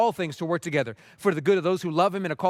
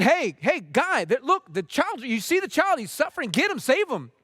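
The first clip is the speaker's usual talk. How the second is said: retold frantic screaming; 7 semitones higher than usual. Man yelling at a lifeguard to save a drowning child, retold screaming. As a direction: act out an alarmed onlooker calling for help. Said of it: "he starts screaming".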